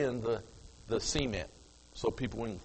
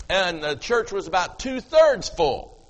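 ordinary delivery

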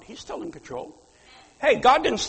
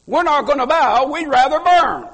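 louder defiant vow; defiant declaration; 4 semitones higher, 6 dB louder than usual. Retold or imitated. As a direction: stand firm like the three boys. Voicing the three Hebrew boys.

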